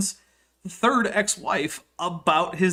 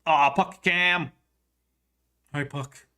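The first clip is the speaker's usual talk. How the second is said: cooing at pet; 2 semitones lower, slower than usual. Real, not acted. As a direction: coo gently at the cat.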